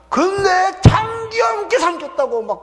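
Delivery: high shouted outrage at the brother; accusing shout. Retold or imitated. Preacher voicing the elder brother accusing him, shouting. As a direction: yell the accusation in mock fury.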